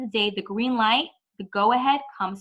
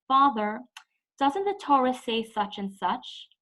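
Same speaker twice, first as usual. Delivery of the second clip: respectful question; 3 semitones higher, slower than usual. Shown as a demonstration. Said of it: "The tone should be that of a question".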